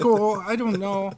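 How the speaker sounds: a lightly voiced Jordan Peterson; a hint of a dithering Peterson; Peterson impression. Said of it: "I love your impression".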